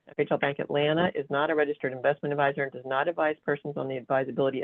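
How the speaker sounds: rushed legal disclaimer read; fast. Real, not acted. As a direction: rattle off the fine print quickly. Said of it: "read a disclaimer slide as fast as I can".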